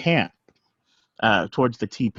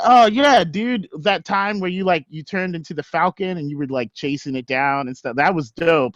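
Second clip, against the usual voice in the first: high bro voice; 6 semitones higher than usual. Acted. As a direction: hype him up like a bro.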